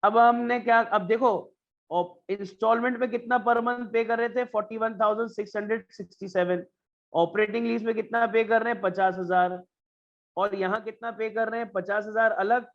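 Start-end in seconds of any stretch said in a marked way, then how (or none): 4.5-6.6 slow dictation. Shown as a demonstration. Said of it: "teacher reads figure for notes".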